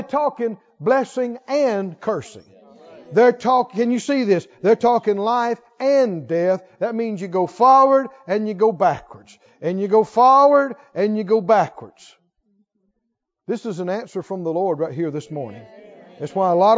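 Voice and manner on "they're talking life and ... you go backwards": loud preaching emphasis. Real, not acted. Preacher pressing the congregation, louder. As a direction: pound the words out to the crowd. Preacher driving point home.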